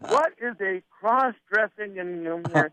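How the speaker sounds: mild mock indignation, slow at the start; indignant boss. Boss objects to song on his station, mock indignation. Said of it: "he used his famous".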